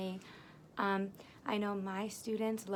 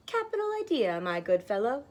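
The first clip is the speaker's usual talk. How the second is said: jolly pig; 3 semitones higher, 6 dB louder than usual. Acted. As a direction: hail him heartily and loudly. Posh pig voice.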